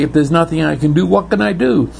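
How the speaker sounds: rushed, flustered question; fast anxious question. Retold or imitated. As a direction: blurt it out in a hurry. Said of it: "the funny thing is you might say".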